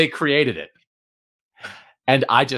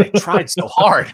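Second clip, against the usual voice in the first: laughing it out, higher and louder; 6 semitones higher, 4 dB louder than usual. Real, not acted. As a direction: let the laugh break through the words. Repeats line, then laughing take.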